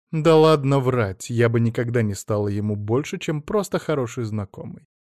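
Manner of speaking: a hint of a mocking imitation of her friend; mocking mimicry. Ada mimicking Naina's denial to her face, lightly mocking imitation. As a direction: parrot her words back with scorn. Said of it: "передразнила её Ада Станиславовна".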